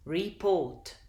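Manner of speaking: "Report" with the stress on "port"; "Report", lighter first syllable, prominent second. Shown as a demonstration. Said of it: "stress is on the second syllable".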